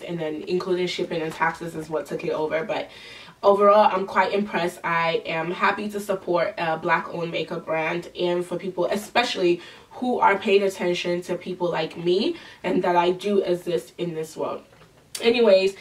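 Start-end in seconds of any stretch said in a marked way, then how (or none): 4.8-14.6 nasally sounding voice. Real, not acted. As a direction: speak through a nasal, stuffy voice. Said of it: "putting up with my nasal, nasally sounding voice".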